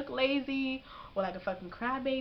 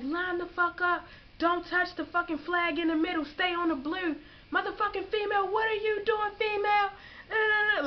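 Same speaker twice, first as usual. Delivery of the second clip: drill instructor yelling; 9 semitones higher than usual. Retold or imitated. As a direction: yell at recruits to rattle them. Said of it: "They like".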